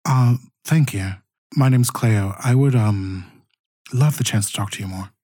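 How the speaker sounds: lightly voiced smooth reporter; a hint of a polished reporter pitching a meeting; reporter Cleo. Reporter Cleo charming the player character.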